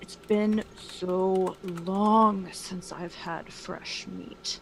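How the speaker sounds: put-on dragon character voice. Speaker recalls the line they used when players came into the cave; dragon voice. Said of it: "the dragon voice I use".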